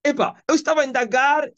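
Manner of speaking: retold wondering reply. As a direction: marvel aloud at a man who never changed. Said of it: "O que eu falo?".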